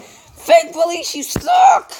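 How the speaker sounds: mock-jeering yell at the police, rising high; taunting shout. Real, not acted.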